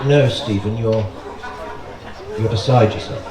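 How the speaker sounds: put-on calm posh English accent, lightly done; understated posh English calm. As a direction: soothe him like an unruffled posh Englishman. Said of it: "He has that posh English accent".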